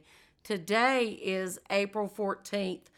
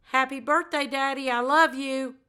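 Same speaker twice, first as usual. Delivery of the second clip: lifted, a bit higher than her usual; 3 semitones higher, 3 dB louder than usual. Shown as a demonstration. Daughter to her late father, in a slightly higher voice. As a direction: say it up in a brighter, higher register. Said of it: "do it one more time in that high voice".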